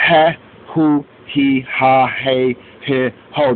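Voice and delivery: he, hu, he, ha said with a very soft breathy h; he and ho with only a light h. Shown as a demonstration. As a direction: soften the h in he, hu, he, ha, he, he, ho. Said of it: "They'll say it very soft".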